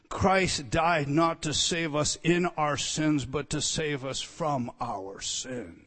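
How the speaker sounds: slow, weighty, contrasting in and from; solemn emphasis. Real, not acted. Preacher stressing a key truth to listeners, slow and weighty. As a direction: lean on in and from, slowly. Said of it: "Listen carefully".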